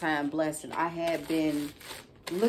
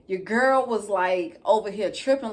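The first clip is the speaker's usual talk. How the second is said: excited; 4 semitones higher, 6 dB louder than usual. Real, not acted. Excited about gifts.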